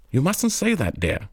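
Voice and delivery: put-on a proper lady hushing her child; mother chiding. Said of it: "the mother chid the child".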